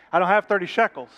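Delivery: loud acted outburst; exasperated protest. Poor preacher told the price, exasperated protest.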